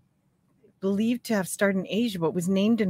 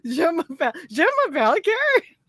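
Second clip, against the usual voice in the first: mock French; 8 semitones higher than usual. Joking in school French.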